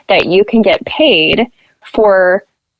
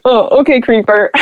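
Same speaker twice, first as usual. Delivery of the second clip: sarcastic okay, creeper; 6 semitones higher than usual. Retold or imitated. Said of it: "And I was like".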